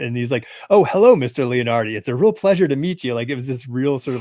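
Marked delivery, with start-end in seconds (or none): 0.7-3.1 mock stiff, polite greeting, louder and higher; overly formal fan. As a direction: play the nervous fan going all formal.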